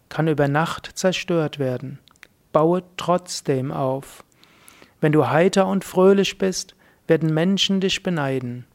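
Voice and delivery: poem reading. Real, not acted. Speaker reads the closing teaching poem for listeners to absorb, recited. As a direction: read a teaching poem aloud, dropping on every 'trotzdem' line. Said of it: "ich lese jetzt zum Abschluss nochmal dieses Lehrgedicht vor".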